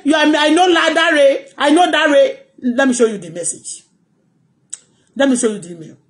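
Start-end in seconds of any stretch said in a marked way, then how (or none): 0.0-2.4 mock threat. Imitating the threatener.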